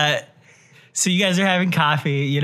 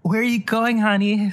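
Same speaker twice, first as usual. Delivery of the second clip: lightly voiced woman, a touch higher; half-hearted impression of a woman calling her partner honey; a hint of her voice; Claire Danes; 4 semitones higher than usual. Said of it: "do an impression of her beautiful voice".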